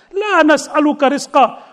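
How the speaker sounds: fast recited Arabic verse; rapid Quranic recitation. Acted.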